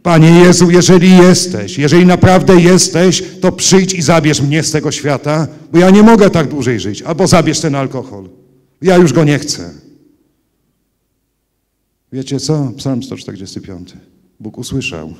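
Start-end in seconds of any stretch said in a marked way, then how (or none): 0.0-9.7 high, loud desperate yell to God; bellowing at God at 3 a.m., begging to be saved. Retold or imitated. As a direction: scream the prayer into the cold night. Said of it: "zacząłem się drzeć".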